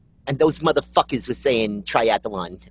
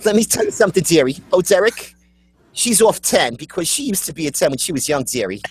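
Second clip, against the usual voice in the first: lightly put-on sassy dame; sassy "dearie" character; 4 semitones higher, faster than usual. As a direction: tease with a knowing, dearie-calling voice.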